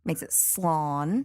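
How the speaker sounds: slán said slowly with a long open "aa"; slán with the fada sounding; long fada vowel. Shown as a demonstration. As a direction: stretch the á in slán. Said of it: "keeps it from sounding like slan".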